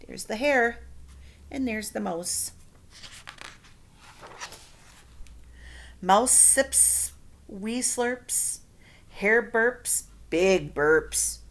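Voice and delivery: put-on lively read-aloud to children; storybook reading. A narrator's reading. Teacher reading a picture book to her class. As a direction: read it like story time for kids.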